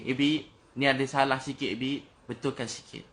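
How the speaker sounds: teguran lembut yang ditiru. Retold or imitated. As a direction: gently imitate a teacher's small correction. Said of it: "dia tegur saya sikit". (meniru teguran cikgu yang lembut)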